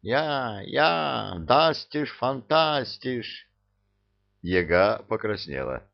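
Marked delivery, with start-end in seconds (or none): 0.0-3.5 higher, slow, hammed-up German shout; кот пародирует немецкий вопль; mock German yell. A narrator's reading. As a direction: howl it with his head thrown back like a cat imitating German. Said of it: "Кот задрал голову вверх и завопил".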